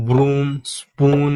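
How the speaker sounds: ব্রুম, স্পুন with the long oo held slowly; slow demonstration. Shown as a demonstration. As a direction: stretch the long vowel in ব্রুম, স্পুন for students. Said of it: "দীর্ঘ যেমন". (দীর্ঘ উ টেনে ধীরে উচ্চারণ)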